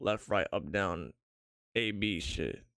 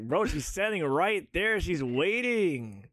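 urgent whisper-shout; 6 semitones higher, 4 dB louder, slower than usual. Pretend. Urging his frozen self.

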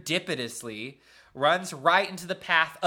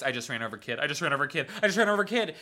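mock panic, building in pitch and volume; freaking out; much faster than usual. Driver thinks he ran over a kid, mounting mock panic. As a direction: escalate from stunned to alarmed. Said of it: "freaks out".

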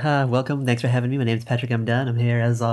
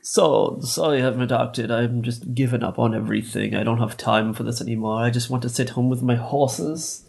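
bad mock Scottish accent, lightly voiced; half-hearted Scottish actor impression, closer to British; Sean Connery. Workshopping a Scottish actor voice for a friend, poor accent impression. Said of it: "Workshop in my Sean Connery voice".

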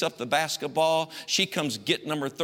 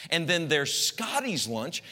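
sing-song mom. Retold or imitated. Mother to her son, slow and sing-song. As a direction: lay out each lunch slowly and sweetly. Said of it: "this is how she spoke to me".

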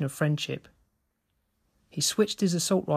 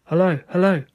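put-on loud hello in a lightly accented English; accented player calling out, louder; slight accent; 2 semitones higher, 6 dB louder than usual. A narrator's reading. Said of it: "spoke English with a slight accent".

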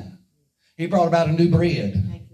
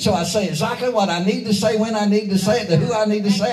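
driving pulpit cadence; building preaching. Real, not acted. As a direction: build phrase on phrase to a punchline.

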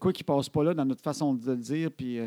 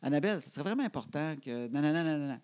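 quieter, measured mock-serious parent; calm parental request; 4 dB quieter than usual. Father shows how calmly he asked Annabelle, measured request. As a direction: replay a softly spoken, reasonable request. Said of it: "Ça ressemblait à ça".

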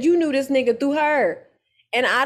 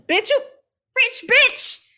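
admiring squeal; 13 semitones higher, 3 dB louder than usual. Real, not acted. Admiring exclamation about dress.

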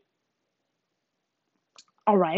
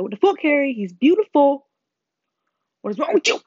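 higher, louder scolding protest; indignant fangirl telling someone off; mock outrage; 4 semitones higher, 6 dB louder than usual. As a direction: scold in exaggerated disbelief. Acting out her outrage at Harry.

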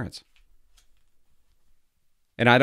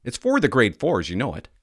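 teacher voice; 5 semitones higher, 4 dB louder than usual. Retold or imitated. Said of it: "the teacher says to him".

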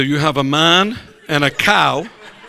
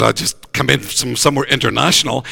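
put-on northeast English accent; 4 semitones lower than usual. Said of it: "real strong north, northeast accent".

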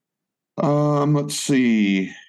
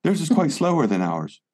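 put-on light British accent, slightly higher; Joe Jackson British accent; 5 semitones higher than usual. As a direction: back into a British accent, playful. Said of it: "I could get back into character".

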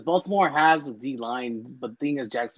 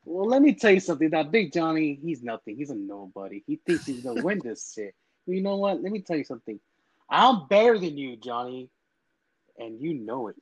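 trash-talking wrestler cutting a promo; wrestling promo. Acted. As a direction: hype it up like a heel wrestler. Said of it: "if you wanna take this time to fucking cut a promo".

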